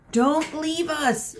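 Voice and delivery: high, slow, loud wail. Acted. Perseus wailing at departing friends, slow high wail. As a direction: drag out the plea. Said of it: "wailed Perseus".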